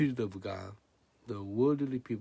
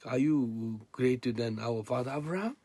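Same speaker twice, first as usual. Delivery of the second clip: acted challenge; 3 semitones higher, 5 dB louder than usual. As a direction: play the sceptics challenging him, climbing sharply. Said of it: "And they say".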